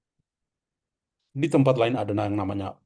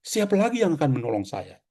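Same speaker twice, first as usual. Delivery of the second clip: raised, imploring voice on ini; a lightly voiced blind beggar begging for help; pleading beggar; 6 semitones higher than usual. Preacher voices the blind man pleading, raised pitch. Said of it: "maka dia bilang".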